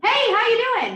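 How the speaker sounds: booming, loud voice, very high in pitch. Speaker showing how a loud phone greeting lands on an S-type; loud greeting. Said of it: "How's an S gonna feel about that volume".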